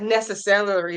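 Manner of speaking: "necessary" as "nessa-cellery" inside a sentence; playful mispronunciation. Retold or imitated. Crafter trying a viewer's version in a sentence, playful mispronunciation. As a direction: slip "celery" into the end of "necessary". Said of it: "I like that".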